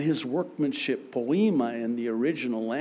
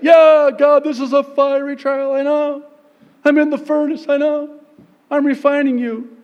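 loud laughing protest; 12 semitones higher, 12 dB louder than usual. Acted. Believer in fiery trial.

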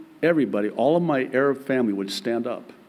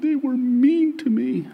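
put-on much higher, slow, whiny child voice; a gentle imitation of a sobbing young girl; crying little girl; 12 semitones higher than usual. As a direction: imitate a small daughter in tears. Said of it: "She said".

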